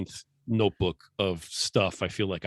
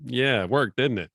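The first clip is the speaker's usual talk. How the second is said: smug wife imitation; 2 semitones higher, slower than usual. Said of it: "she's just smirking at me like".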